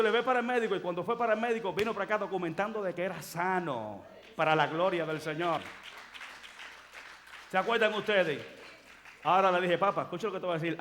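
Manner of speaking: loud, high fervent preaching; preaching shout. Real, not acted. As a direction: thunder it out to the congregation. Preaching at full force.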